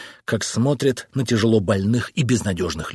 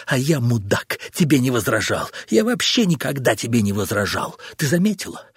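husband lashing out, voice climbing; angry outburst; 4 semitones higher than usual. Acted. Husband ranting at his wife, angry and rising.

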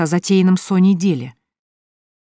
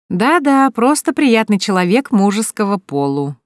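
higher, louder mocking echo of просто; mocking scoff; 6 semitones higher, 5 dB louder than usual. A narrator's reading. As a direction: repeat "просто приятный человек" back with a mocking scoff. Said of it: "хмыкнула Вика".

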